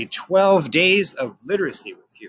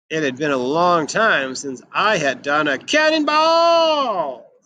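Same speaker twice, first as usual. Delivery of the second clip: excited; 2 semitones higher than usual. Acted. Santa excited about the pool.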